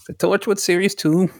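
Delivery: a hint of Day-Lewis's Lincoln, gently. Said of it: "he did his Lincoln voice".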